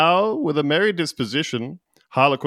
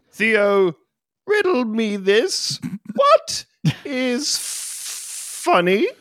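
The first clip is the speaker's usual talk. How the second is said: theatrical king; 9 semitones higher, much slower than usual. Acted. King challenges jester.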